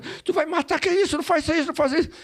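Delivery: imitating a high, nervous shout; panicked yelling. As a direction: act out someone yelling in alarm. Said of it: "começou a gritar".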